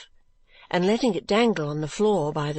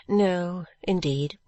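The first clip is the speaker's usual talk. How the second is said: charming tone; much slower than usual. Acted. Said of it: "in quite a charming tone of voice".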